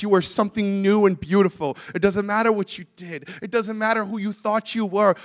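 insistent, building sermon delivery; earnest preaching. Real, not acted. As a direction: drive each assurance home to the congregation.

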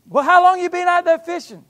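high, loud holler over water; shouting from shore. Retold or imitated. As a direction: shout the question to a far-off boat. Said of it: "he shouted out to them".

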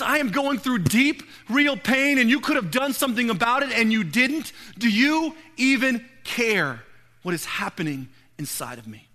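grieving sister pleading with God, anguished; anguished plea. Retold or imitated. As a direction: accuse God through the grief, voice lifted.

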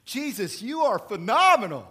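Satan sweet-talking Jesus, giddy and loud; flattering Satan. Acted. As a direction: gush over him like a smooth-talking devil. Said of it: "Satan always says".

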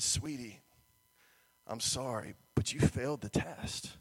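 low, soft, sympathetic; quiet, apologetic retelling; gently breaking bad news. Lifeguard breaks bad news to child.

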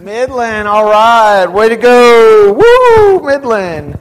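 loud, slow whoop of a cheer; rally the crowd for Midland. Real, not acted. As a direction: hype the volunteer's hometown loudly. Cheering volunteer's hometown.

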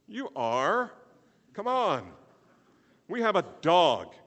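loud, high mock disbelief; loud exclamation. Real, not acted. Preacher answering his own question to the congregation, loud exclamation.

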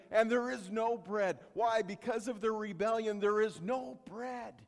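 loud, driving preacher build; full-force sermon delivery; preaching. Acted. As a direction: press the point hard to the congregation.

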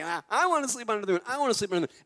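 put-on kids whining angrily. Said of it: "They're just angry".

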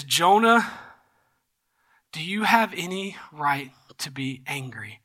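name first, then a low, hushed question; measured questioning. Retold or imitated. God gently questions angry Jonah.

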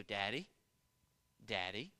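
soft, low questioning child imitation; little boy calling. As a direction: tentatively call for dad with a rising end. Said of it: "He'd go".

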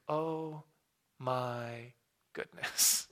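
hushed, breathless awe; stunned whisper. Retold or imitated. Realizing who he spoke to, a stunned whisper. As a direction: let it slip out in a near whisper.

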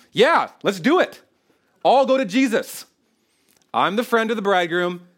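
excited. Retold or imitated. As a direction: cheer it like thrilled news. Voicing John's joy.

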